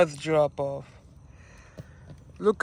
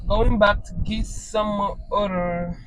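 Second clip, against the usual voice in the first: whispered repeat, no voice; 5 dB quieter than usual. Real, not acted. Whispering to viewers about more orders. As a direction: breathe the line like a secret to the viewers.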